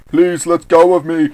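loud, drawn-out plea; begging. Acted. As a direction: plead loudly to be freed. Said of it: "Santa begs".

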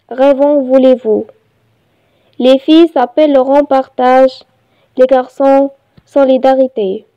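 measured reading with pauses between phrases; poem recitation. Shown as a demonstration. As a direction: recite it line by line, evenly paced. (إلقاء قصيدة بتأنٍّ)

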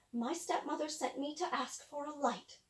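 put-on small, soft girl voice; quiet girl. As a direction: answer meekly, softly. Girl answers softly.

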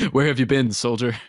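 lightly voiced impression of a fellow fan; a hint of a buddy's mock greeting; Jeff. Fan mimics a friend hailing a long-lost commenter, lightly put on. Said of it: "that was my Jeff impression".

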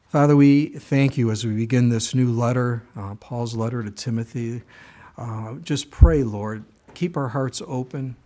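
earnest spoken prayer, steady pace; closing prayer. Acted. Preacher closing the sermon praying to the Lord, earnest prayer. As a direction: pray over the congregation sincerely.

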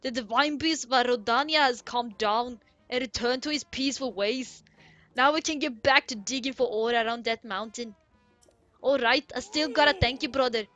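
put-on hearty Goron in a loose Irish accent; badly faked Irish brogue; attempted Irish accent. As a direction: read it with a put-on Irish lilt. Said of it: "I always do my Irish accent".

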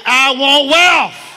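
loud, slow, drawn-out claim of wealth; preacher leading a shout for the crowd, loud and slow; shouted declaration. Shown as a demonstration. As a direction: shout it out to the congregation. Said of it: "shout at me and say".

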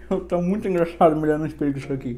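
metal caps over teeth; talking through teeth jewelry; speaking with grillz in. Real, not acted. Seen 1: Silver grillz visible on teeth throughout; fitted before and removed after.

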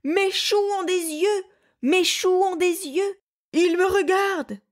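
very high panicked shriek; wild terrified scream. A narrator's reading. Bear sees eyes in the cabbage and shrieks in terror. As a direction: scream it like your cabbages came alive. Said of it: "Il poussa un hurlement de sauvage".

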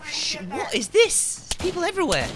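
high panicked yell; alarm shout. Real, not acted. Suddenly surrounded by enemies.

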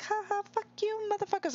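high, gleeful mock taunt; high-pitched gloating player voice. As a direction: crow it high as the leader. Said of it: "Whimper Kitten's up here like".

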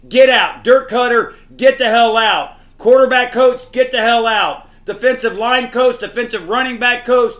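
fan's real furious yell at the coaches; angry rant. Real, not acted. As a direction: yell each name, then fire them. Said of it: "This makes me angry".

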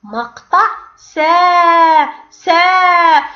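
long drawn سا; syllable demo. Shown as a demonstration. Teacher reading the long vowel syllable to pupils, slowly. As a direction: stretch سا out slowly. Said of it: "ما هذا المقطع؟".

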